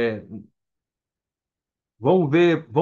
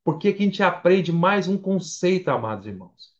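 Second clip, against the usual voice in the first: normal talking voice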